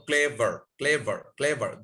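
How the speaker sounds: ক্লেভার in two distinct beats, ক্লে-ভার; teacher sounding out ক্লে-ভার; syllable demonstration. Shown as a demonstration. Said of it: "দুটো syllable থাকে".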